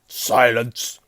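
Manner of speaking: loud, drawn bellow; yelling. A narrator's reading. Uncle shuts nephew up, yelling. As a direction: yell the one word. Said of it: "yelled Uncle Vernon".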